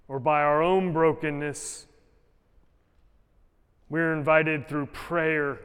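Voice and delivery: earnest, measured prayer voice. Acted. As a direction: pray it aloud for the congregation. Leads closing prayer.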